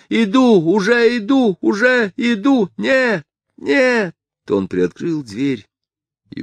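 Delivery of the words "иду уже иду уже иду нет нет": high falsetto shout; panicked man calling to someone behind the door; falsetto cry. A narrator's reading. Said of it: "он всё кричал фальцетом".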